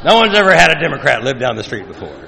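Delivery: hammed-up high wail, easing down; mock lament. Mocking whiny churchgoer lamenting a Democrat neighbor. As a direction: overblown woe, mocking.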